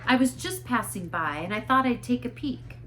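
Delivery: a hint of an embarrassed church lady caught peeking; flustered minister's wife.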